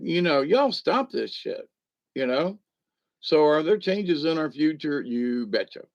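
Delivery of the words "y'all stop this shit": higher, slow mock exasperation; fed-up people, half-hearted; exasperated plea. Voicing fed-up people, slow mild mock exasperation. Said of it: "a lot of people are just saying".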